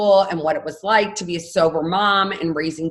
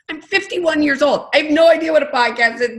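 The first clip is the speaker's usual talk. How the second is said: raised pitch, loud mock bafflement; baffled protest; 8 semitones higher, 6 dB louder than usual. Fifty-one-year-old mom answering the podcast suggestion, baffled protest. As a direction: protest it high and loud, playing clueless.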